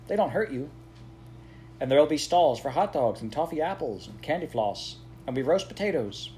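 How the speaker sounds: put-on a young boy bubbling over about fireworks; eager boy Clem. Clem eagerly describes bonfire night.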